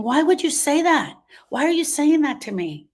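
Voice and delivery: high, upset questioning, lightly replayed; retold upset protest. Wife retelling her upset reply to her husband, high and shocked. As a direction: replay the shocked hurt of hearing it. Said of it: "I got upset".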